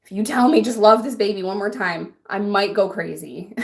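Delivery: exasperated threat. Retold or imitated. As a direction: snap back at the advisers, mock fury. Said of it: "And I'm like".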